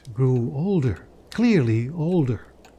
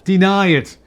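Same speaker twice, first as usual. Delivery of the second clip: loud, high cry; cried out; 5 semitones higher, 7 dB louder than usual. A narrator's reading. Spirit cries out at Scrooge, loud and accusing. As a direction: fling the words out. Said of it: "cried the spirit".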